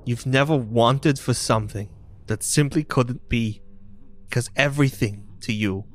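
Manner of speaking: lightly voiced wounded younger sister; pained, angry girl character; Goliath girl, bitter. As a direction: accuse him, pitch rising with the hurt.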